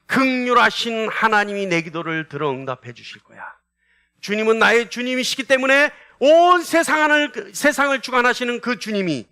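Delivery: emphatic preaching voice, swelling on key words; confident believer. Acted. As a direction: voice the trusting heart with rising conviction. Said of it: "우리 마음은 어때요?".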